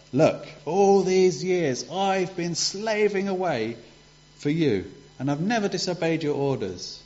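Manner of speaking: put-on older son complaining to his father; angry complaint. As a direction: list the grievances with bitterness. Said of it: "he was really angry".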